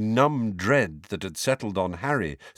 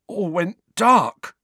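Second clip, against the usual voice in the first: slow, hoarse and shuddering; 11 semitones higher, 7 dB louder, slower than usual. Acted. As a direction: rasp it out in shock. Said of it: "Dudley said hoarsely, shuddering".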